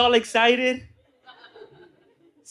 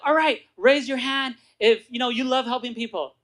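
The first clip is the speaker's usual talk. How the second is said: rallying presenter; 4 semitones higher, 4 dB louder than usual. Retold or imitated. Imitates speaker rallying the meeting.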